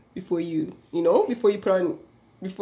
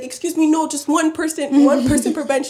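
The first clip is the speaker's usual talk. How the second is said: high fussy lady; 7 semitones higher, 5 dB louder than usual. Retold or imitated. Elderly lady voiced.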